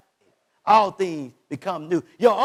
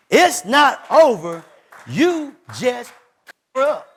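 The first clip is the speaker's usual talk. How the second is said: slow, loud insistence; emphatic; 2 semitones higher, 6 dB louder, slower than usual. Shown as a demonstration. Preacher insisting to the congregation, slow and loud. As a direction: drag it out and hit it hard.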